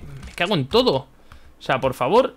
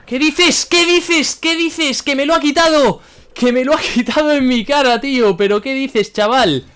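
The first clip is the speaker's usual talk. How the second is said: high, loud yells of disbelief; outraged shouting; 9 semitones higher, 5 dB louder, slower than usual. Real, not acted. Player has the win stolen in his face, shouting in disbelief. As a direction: shout it in real shock, pitch way up.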